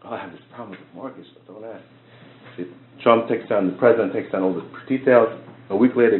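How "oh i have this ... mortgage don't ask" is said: much softer and a little quick; sheepish reply. Retold or imitated. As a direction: mumble it, embarrassed about the trouble. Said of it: "He's like".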